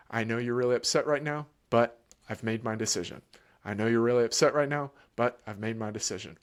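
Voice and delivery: even, steady parent repeating; calm broken record. Shown as a demonstration. Parent calmly repeating to upset child, steady voice. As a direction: keep it level and unbothered. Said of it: "you just say it plainly".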